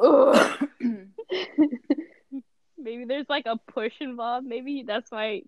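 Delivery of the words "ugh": loud exasperated "ugh"; mock rage groan. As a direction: groan as if imitating someone raging. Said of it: "like, raging out".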